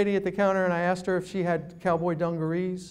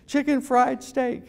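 slow chicken fried steak, each word drawn out; savoring the phrase; 4 semitones higher, slower than usual. Shown as a demonstration. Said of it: "like a three-word expression".

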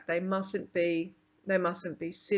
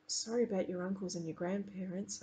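softer, gentle condolence; quietly; 9 dB quieter than usual. Acted. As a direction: say it softly to a grieving friend. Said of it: "I say quietly".

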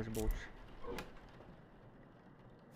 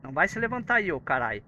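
startled yell; 2 semitones higher, 7 dB louder than usual. Real, not acted. Startled by game figure rising.

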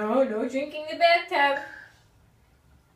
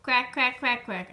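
duck quack; 4 semitones lower than usual. Shown as a demonstration. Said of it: "What does the ducky say?".

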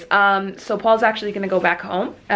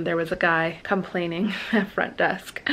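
hushed gossip whisper; 2 semitones lower, 5 dB quieter than usual. Real, not acted. Gossiping about complaining guest.

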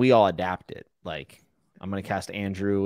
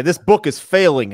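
loud, higher, drawn-out verdict; mock makeover-show host; 6 semitones higher, 10 dB louder than usual. Podcaster imagines a rescue host scolding an author, loud mock outrage. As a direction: declare it like a harsh TV rescue host. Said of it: "I hope they say".

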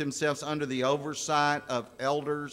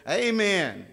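higher, mildly shouted churchgoer's amen; 6 semitones higher, 4 dB louder than usual. Retold or imitated. Newcomer interrupting the preacher from his seat, shouted. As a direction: call out an eager amen. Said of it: "shouted it really loud".

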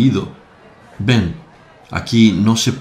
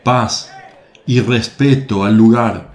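firm but only slightly raised; mild call for calm. Acted. Jesús calling the crowd to order, mildly raised voice. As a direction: call for peace without shouting. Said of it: "se acerca y grita".

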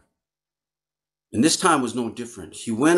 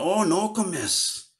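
disgusted groan; 7 semitones higher, slower than usual. Retold or imitated. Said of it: "he made this face".

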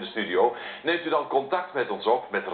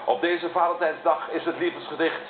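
raised, theatrical introduction; show announcer; 4 semitones higher than usual. Acted. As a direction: announce the guest with a flourish. Presenter announces the love poem.

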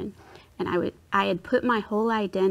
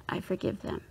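forgiving through gritted teeth; 7 dB quieter than usual. Retold or imitated. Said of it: "It was gritted teeth".

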